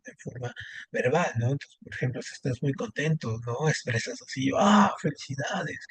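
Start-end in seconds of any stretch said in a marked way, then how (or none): 4.5-5.8 higher, slowed cry of congratulations; happy exclaim. Shown as a demonstration. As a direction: exclaim it like joyful news, drawn out. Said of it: "y gritas".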